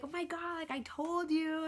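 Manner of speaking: high-pitched told-you-so; re-enacted delighted reaction; imitating excited fiance. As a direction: retell it high, drawing out the end. Fiance reacts to happy news.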